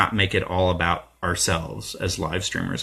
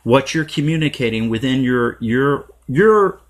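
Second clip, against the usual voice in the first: mocking narcissist; 4 semitones higher than usual. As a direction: ham up a self-important outsider. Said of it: "putting our narcissism first and saying".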